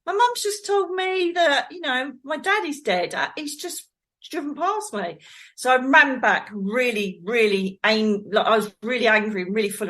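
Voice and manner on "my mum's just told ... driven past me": put-on startled child. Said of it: "And I went".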